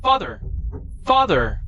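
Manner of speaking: high alarmed cry of Father. Acted. Son sees his father struck, alarmed high cry.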